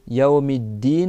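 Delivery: "Yaomiddin" spoken slowly with the double d held; slow careful pronunciation. Shown as a demonstration. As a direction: stretch "Yaomiddin" syllable by syllable. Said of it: "donc shadda sur le del".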